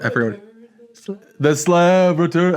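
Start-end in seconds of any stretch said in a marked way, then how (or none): 1.4-2.5 Courage the Cowardly Dog voice. Retold or imitated. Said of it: "that kinda Courage the Cowardly Dog voice".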